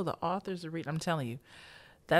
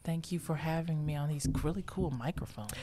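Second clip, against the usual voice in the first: soft whisper into the mic; 5 dB quieter than usual. Pretend. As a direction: whisper it close to the microphone. Jokes about the fancy microphones.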